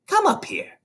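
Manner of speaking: shouted. A narrator's reading. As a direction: call him up sharply. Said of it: "the Trunchbull shouted".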